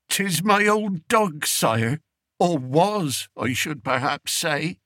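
a humble peasant begging the king; old country shepherd. Acted. Old shepherd telling the king of his journey, rustic pleading voice.

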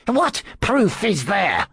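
slow, high-pitched indignant demand; outraged hiss. A narrator's reading. Accused priest demands proof from his accuser, high outraged hiss. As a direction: draw out the challenge, pitched high. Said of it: "Pompedius hissed".

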